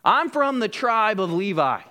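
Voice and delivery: mock Levite boast; boastful. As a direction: announce it with mild swagger. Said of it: "They probably even boasted at times".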